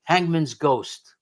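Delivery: slow, offhand and unimpressed; drawn-out casual shrug; nonchalant. Retold or imitated. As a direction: diner owner shrugging off the ghost. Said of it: "the owner nonchalantly says".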